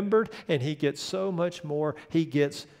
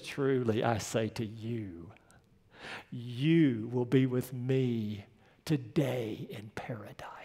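hushed, much lower and softer, slow; tender whisper; 6 semitones lower, 8 dB quieter, slower than usual. Acted. Dying Jesus whispering comfort to the thief, hushed. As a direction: breathe the promise like a dying man.

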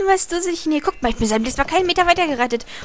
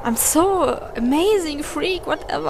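hyper; 4 semitones higher, slower than usual. Real, not acted. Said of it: "ich bin aufgedreht, hört man's?".

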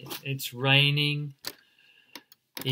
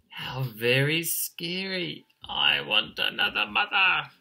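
chick voice climbing higher; chirping chick; 4 semitones higher, 3 dB louder than usual. Acted. Emu chick flees the licking tongue, rising chirp. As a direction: chirp it in mild alarm, rising on the second sentence. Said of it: "and he chirped".

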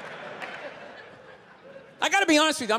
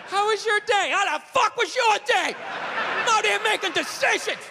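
pitched-up mock gruff husband; a hint of a fed-up husband snapping; grumpy husband; 6 semitones higher than usual. Husband home from work snapping at his wife, mock gruff.

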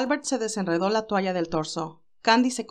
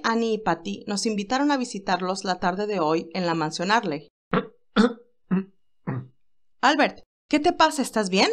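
cheerful Candy; 3 semitones higher than usual. Acted. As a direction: lift the voice for lively young Candy. Candy voiced by reader.

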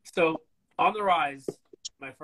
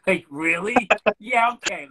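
excited disbelief; 6 semitones higher, 8 dB louder than usual. Retold or imitated. Offered dream gig, disbelief.

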